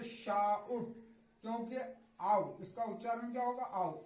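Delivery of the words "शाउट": शाउट as shaa-ut; split ou sound. Shown as a demonstration. Teacher showing how o-u is read, शाउट as shaa-ut. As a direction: open शाउट on a long aa gliding to u. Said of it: "इसे क्या पढ़ेंगे".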